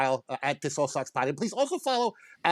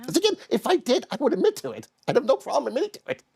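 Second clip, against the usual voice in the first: defensive, slightly squeaky puppet voice; high-pitched protesting; 3 semitones higher than usual. Real, not acted. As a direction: voice climbing in self-defense. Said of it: "how high it's getting".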